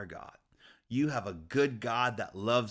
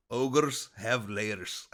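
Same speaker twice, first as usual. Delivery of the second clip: slow, drawn-out ogre voice; Shrek impression; 2 semitones lower, much slower than usual. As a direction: drag each word out like a lumbering ogre. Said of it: "But I'm trying to sound like Shrek".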